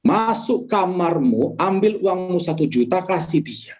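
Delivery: slow, measured command from a voice within; Holy Spirit's voice. Retold or imitated. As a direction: draw out each word as a divine instruction. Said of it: "ada suara, saudara". (suara Roh Kudus, perintah yang pelan dan tegas)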